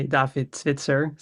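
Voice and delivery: David Zwitser said the Dutch way; Dutch pronunciation. Shown as a demonstration. Guest introducing himself to hosts, Dutch pronunciation of "David Zwitser". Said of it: "In Dutch, you'd say".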